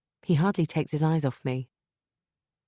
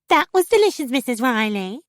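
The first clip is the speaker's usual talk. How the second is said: much higher, louder mocking falsetto; mocking imitation; 10 semitones higher, 8 dB louder than usual. Husband mocking his wife's compliment, high falsetto. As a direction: mimic her simpering voice cruelly. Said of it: "he says in a high-pitched voice, clearly trying to imitate me".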